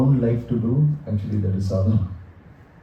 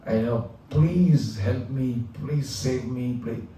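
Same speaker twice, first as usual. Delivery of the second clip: mild mock crying plea; 4 dB quieter, slower than usual. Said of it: "on the floor crying and saying".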